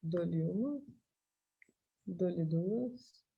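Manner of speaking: going once, going twice call; playful auction countdown, softly; auctioneer. Pretend.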